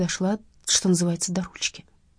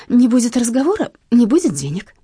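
louder, sharp and final; cut short firmly; 5 semitones higher, 7 dB louder than usual. Acted. Heroine cuts off the thug on the phone, firmly and louder. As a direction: snap it off, no room to argue. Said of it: "отрезала я".

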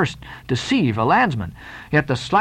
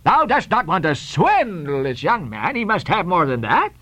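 indignant; 2 semitones higher than usual. Acted. Peleg protests the low offer.

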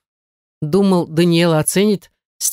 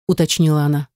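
usual speaking voice

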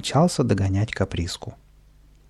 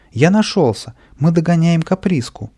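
excited calling; 6 semitones higher, 5 dB louder than usual. Acted. Boy calls out joyfully running.

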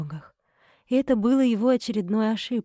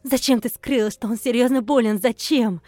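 furious accusations; 3 semitones higher, 4 dB louder than usual. Acted. Wife raging accusations.

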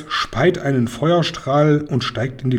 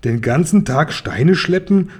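indignant outcry; 2 semitones higher than usual. Acted. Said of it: "ruft Kashta aufgebracht".

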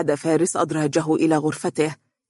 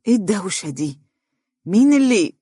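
annoyed; 4 semitones higher than usual. A narrator's reading. Son coming out of his room to the racket, annoyed. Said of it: "وقال بضيق".

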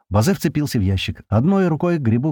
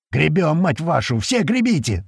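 high, forceful rallying cry; yelled swearing command; 5 semitones higher than usual. A narrator's reading. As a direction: drive them on, pitch climbing. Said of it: "орёт Слива".

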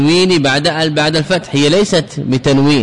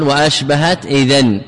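slow, drawn-out chanting of the verse line; slow recitation of the Alfiyya verse; slower than usual. Shown as a demonstration. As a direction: recite the poem line slowly, stretching منونا. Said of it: "لأنه قال".

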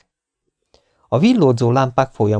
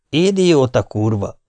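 mild growl; 3 semitones higher, slower than usual. Acted. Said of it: "morogta el magát".

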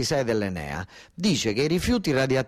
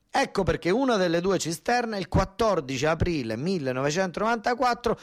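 rising indignation; 4 semitones higher than usual. Acted. Son rails at father over scandal.

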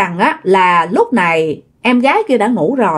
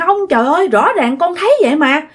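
higher-pitched, mildly exasperated retort; frustrated protest; 5 semitones higher than usual. Retold or imitated. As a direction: protest as if nobody believes you. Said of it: "em của bạn nó rất là tức".

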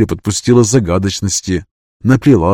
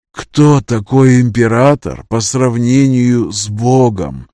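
solemn; slower than usual. Acted. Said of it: "торжественно произнесла старуха".

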